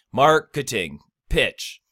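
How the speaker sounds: MAR punched, "keting" light, then PITCH set apart; stressed syllables separated. Shown as a demonstration. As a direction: break "marketing, pitch" to show stress on MAR and PITCH. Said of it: "That's where the stress syllables are".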